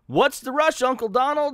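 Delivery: high, loud cartoon kid voice; young nephews. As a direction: call out as curious little nephews. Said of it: "and they're like".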